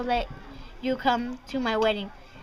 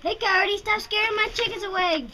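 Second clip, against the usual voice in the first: angry call; 9 semitones higher than usual. Acted. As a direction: yell at the coyote to stop. Farmer scolds coyote.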